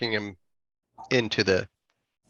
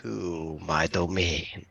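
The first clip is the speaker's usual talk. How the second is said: lower, softer and slow; vampire host; 6 semitones lower, 6 dB quieter, much slower than usual. Acted. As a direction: draw it out like a vampire lord. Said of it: "I do that in such a way".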